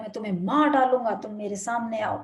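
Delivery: put-on furious boy threatening the echo; angry threat. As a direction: spit the threat out quickly.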